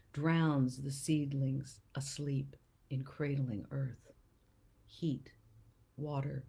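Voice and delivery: slow, measured recital with pauses between phrases; poetry reading. Acted. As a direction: read it as verse, letting each image land. Reads a poem aloud.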